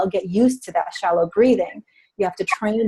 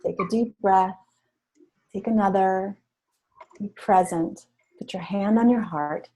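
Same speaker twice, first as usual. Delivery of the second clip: slow, soft guiding voice; calm breath guidance; 4 dB quieter than usual. Retold or imitated. Coach guiding a nervous woman on stage, slow and calm. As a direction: gently lead her into a slow breath. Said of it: "all right, hold on".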